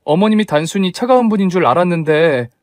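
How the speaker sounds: wounded daughter-in-law pushing back at mother-in-law; indignant protest. Acted. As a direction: stand up to her, voice rising.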